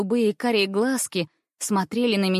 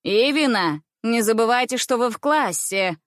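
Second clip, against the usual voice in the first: sharp governess; 3 semitones higher, 3 dB louder than usual. Acted. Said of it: "резкий голос классной дамы".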